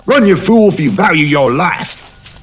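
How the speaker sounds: the inner voice of fear shrieking at her to flee; terrified shout. A narrator's reading. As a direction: scream the warning in sheer terror. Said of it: "the pit of raw terror in her stomach came alive and told her to run".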